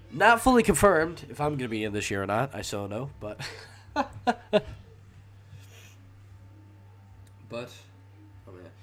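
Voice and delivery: blocked nose from a cold; stuffy nose. Real, not acted. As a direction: talk through a stuffy nose. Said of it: "Excuse me if I sound a bit, uh, stuffy".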